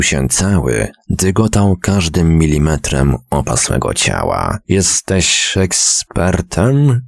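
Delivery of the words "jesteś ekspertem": slow, strained words forced out after silent laughter; squeezed out after laughing. A narrator's reading. Fat man forces words out after shaking with laughter, slow and strained. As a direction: fat man gasping it out, wiping tears from laughing. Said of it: "Wreszcie wydusił z siebie".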